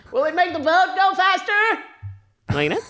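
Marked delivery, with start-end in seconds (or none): 0.1-1.8 high American shout. Pretend. American skeleton on the toilet, high silly American. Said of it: "Amerikansk, da".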